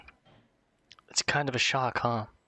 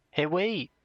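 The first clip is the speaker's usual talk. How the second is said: higher-pitched acted protest; calling after someone; 7 semitones higher than usual. Oliver calls after vanishing friend, mild alarm. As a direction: call out to stop them leaving.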